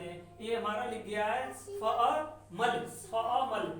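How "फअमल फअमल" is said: फअमल drawn out slowly, the long आ held; slow phonetic reading. Shown as a demonstration. Teacher to students, reading the transcription फअमल: slow, deliberate. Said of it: "फअमल इस तरह से".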